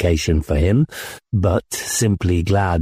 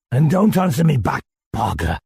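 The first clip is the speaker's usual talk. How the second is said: put-on drunk rebuke; 5 semitones higher than usual. A narrator's reading. Drunk commander rebukes narrator.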